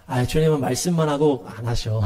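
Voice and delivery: mildly sarcastic dismissal; sneering. Acted. People answering the prophet's judgment warning, mildly sneering. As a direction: imitate scoffers waving away a warning. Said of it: "이렇게 사람들이 빈정거리는 거예요".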